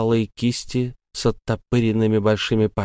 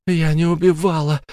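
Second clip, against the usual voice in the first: defensive plea; 8 semitones higher than usual. Acted. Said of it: "оправдывалась она".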